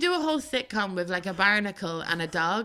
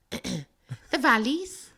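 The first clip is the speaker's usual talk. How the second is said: put-on Welsh accent; 2 semitones higher, much slower than usual. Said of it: "my dad is like".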